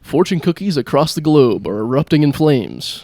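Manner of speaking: hint of a TV reporter breaking absurd news; mock news anchor. Comic reports burning fortune cookies to his co-host, mock newsreader.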